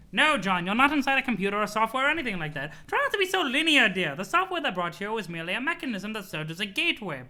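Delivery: put-on sweet old grandma voice; chirpy granny, doting on her grandson; Nana voice. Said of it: "You love my Nana voice?".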